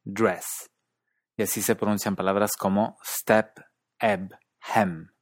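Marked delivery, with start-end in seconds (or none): 0.0-0.7 Canadian accent. Shown as a demonstration. Teacher contrasting accents, Canadian DRESS toward 'drass'. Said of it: "sufre cierto retraimiento de la lengua". 3.0-5.1 STEP, EBB, HEM with Canadian retracted vowel, toward 'a'; Canadian step, ebb, hem, tongue drawn back; Canadian accent. Shown as a demonstration. Teacher listing example words, Canadian retracted E. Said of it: "sufre cierto retraimiento de la lengua".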